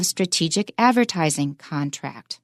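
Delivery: "strategic" and "advertising" stressed, "contract" falling unstressed; connected model phrase peaking on "advertising"; phrase stress demo. Shown as a demonstration. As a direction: put the last main accent on "advertising", then let "contract" fall. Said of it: "最后一个重音会特别高".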